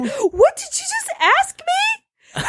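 slow, high, wounded disbelief; deeply hurt. Retold or imitated. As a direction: act wounded and betrayed, dragging it out. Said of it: "the most hurt I've ever seen him".

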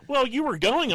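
high, loud mimicking mom voice; mocking mom. Son imitating mom insisting he was going, high loud mimic. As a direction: play mom as shrill and stubborn.

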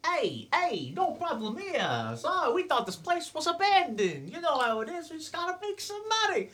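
high, squeaky goblin talking fast to get away; a sly little goblin smoothing things over; nervous goblin. Acted. Goblin caught ransacking the house, squeaky nervous voice.

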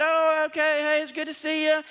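eager mock greeting. Pastor retells his own greeting.

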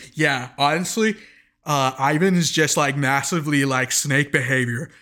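lightly voiced guy with a burning mouth after hot wings; a mild mock hot-wings voice; mouth-on-fire impression. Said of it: "I'm gonna do my impersonation ... I just ate a whole lot of hot wings".

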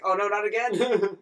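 loud exasperated "oh no not again"; tired, fed-up groan of a line; mock weary victim. Mocking Helen's weary reaction.

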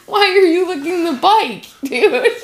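laughing high, giggling through words. Real, not acted. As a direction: giggle at the dog while asking. Laughing at the dog.

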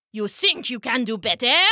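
put-on voice of an indignant ruler; taunting king. King challenges the duck beside his gold, indignant taunt. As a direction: challenge the upstart, in character as the king.

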